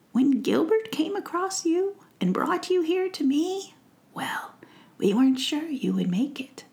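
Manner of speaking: a kind witch recalling the potion; kindly old witch. Acted. Witch explaining to Faith how she healed her, kindly.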